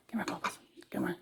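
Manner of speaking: soft unvoiced coaxing call; whispered call. Real, not acted. Owner calling Bubbles over, whispered. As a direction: whisper it gently to the bird.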